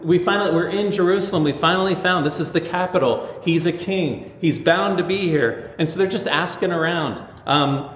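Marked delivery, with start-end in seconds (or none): 0.0-5.7 eager Magi. Retold or imitated. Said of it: "they think".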